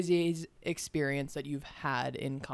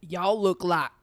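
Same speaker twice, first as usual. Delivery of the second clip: louder, mistaken Southern-style character impression; Forrest Gump; 6 dB louder, slower than usual. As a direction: try the accent and land on a film character. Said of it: "wait, no, that's Forrest Gump".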